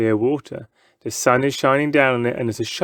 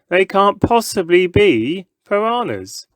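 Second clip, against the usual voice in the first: scoffing; 8 semitones higher than usual. A narrator's reading. Crowd member scoffs.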